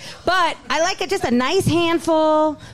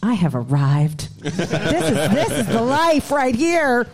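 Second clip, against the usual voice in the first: slow smug voice; 2 semitones lower, slower than usual. Retold or imitated. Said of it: "I'm like".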